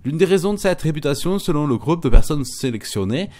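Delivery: hammed-up reading with a hint of German accent; amateur German-accent impersonation, punchy delivery. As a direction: play the German announcer, accent put on. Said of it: "je fais l'accent allemand".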